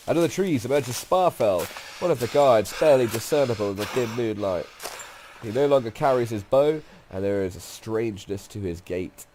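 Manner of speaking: measured storyteller read, key words pushed; game story narration. A narrator's reading. Narrator describing a riverbank encounter, story narration. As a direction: narrate the scene to the player.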